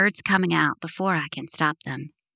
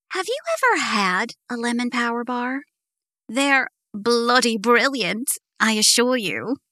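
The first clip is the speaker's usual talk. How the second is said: mock British accent; 4 semitones higher than usual. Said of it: "Are you mocking my accent?".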